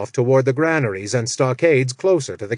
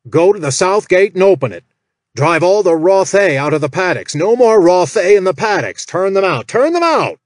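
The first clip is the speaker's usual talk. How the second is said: much higher and louder commanding shout; angry orders; 6 semitones higher, 6 dB louder than usual. Acted. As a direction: bark orders at the cringing orc. Jack as Malmore gives orders.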